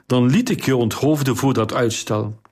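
ordinary delivery

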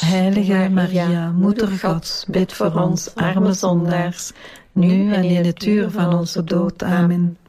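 measured rosary response in unison; praying aloud as a congregation; prayer recitation. Real, not acted. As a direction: recite it together, evenly and devoutly. Group answers the Hail Mary.

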